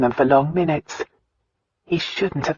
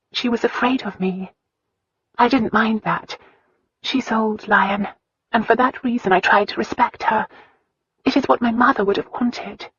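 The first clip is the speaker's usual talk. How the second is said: put-on young woman's voice, higher, gently confiding; a hurt girl finally opening up; Christina's voice; 7 semitones higher than usual.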